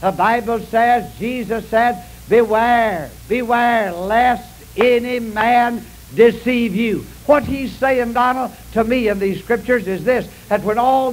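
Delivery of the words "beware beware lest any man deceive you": solemn scripture quote. Acted. Quoting Jesus from the pulpit.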